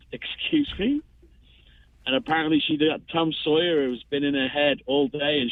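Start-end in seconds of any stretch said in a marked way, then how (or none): 0.1-1.0 mock surprise. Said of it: "And I said".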